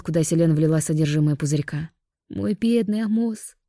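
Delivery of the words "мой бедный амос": higher, slow crying lament; tearful wail. Acted. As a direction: weep over the name. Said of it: "Снова залилась слезами Амина".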